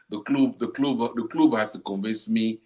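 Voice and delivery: lightly put-on Argentine accent; mock the coach's Argentine accent; a hint of an Argentine Spanish accent; Argentina accent. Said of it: "that's your Argentina accent".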